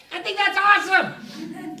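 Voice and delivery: high, loud, drawn-out cheer; thrilled approval. Acted. Kid answering dad about the new Scottish cat, thrilled. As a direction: burst out with delighted enthusiasm. Acts out kid's delighted reply.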